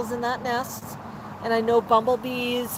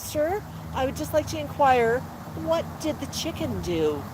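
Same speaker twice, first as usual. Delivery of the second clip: quietly deferential punchline; meek parrot; 6 dB quieter than usual. Acted. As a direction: lightly act a timid, courteous parrot.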